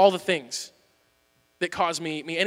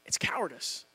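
whispered, low and soft; hushed verdict; 6 semitones lower, 14 dB quieter than usual. Real, not acted. Preacher names avoidance to the congregation, whispering. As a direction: drop to a breath to land it. Sermon punchline, dropped low.

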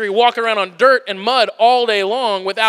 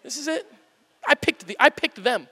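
weary Jesus; 7 semitones higher, 7 dB quieter than usual. Retold or imitated. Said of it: "And he's going".

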